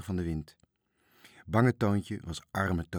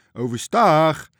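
loud, raised yell; called-out order; 7 semitones higher, 11 dB louder, slower than usual. A narrator's reading. Driekes calls an order to Toontje, shouting. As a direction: holler the sailing command across the waves. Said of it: "riep Driekes".

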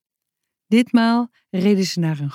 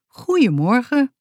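friendly; 6 semitones higher than usual. Acted. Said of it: "zei hij vriendelijk".

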